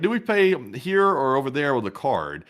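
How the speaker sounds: put-on Southern accent. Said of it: "in a sort of Southern accent".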